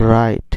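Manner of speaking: রাইট begun straight on R; teacher modelling রাইট, opening on R; silent W. Shown as a demonstration. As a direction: say রাইট with no W sound. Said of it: "ডব্লিউর উচ্চারণ না হলে".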